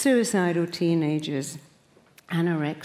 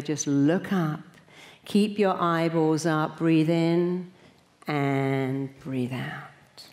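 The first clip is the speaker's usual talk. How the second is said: slow, calm breathing cues; guided meditation; slower than usual. Acted. Leading the audience into a relaxation exercise, slow and calm. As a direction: guide them gently into breathing in and out.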